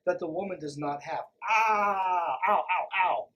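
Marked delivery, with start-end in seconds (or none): 1.5-3.3 loud pretend ow, ow, ow; mock cry of pain. Reacting to the sexist text, a loud mock ouch. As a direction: yelp as if the text stung.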